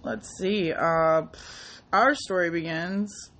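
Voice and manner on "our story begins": storybook narrator voice; fairy tale opening. Pretend. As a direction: begin it like a bedtime tale. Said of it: "No, no, no, I'm kidding".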